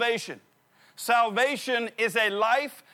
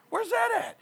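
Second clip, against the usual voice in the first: squeaky, much higher put-on question; high mock confusion; 12 semitones higher than usual. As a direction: act the dazed runner.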